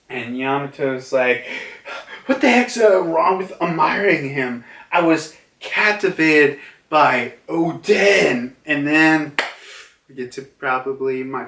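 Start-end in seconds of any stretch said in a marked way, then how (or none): 2.3-8.6 acted indignant protest. Yamato defending admiration of Odin, acted indignation. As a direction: argue back, lightly hammed-up. Yamato argues back at father.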